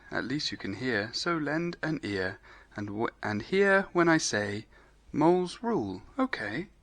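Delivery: hushed, gentle recitation of a rhyme. Acted. Rabbit recites poem to mole.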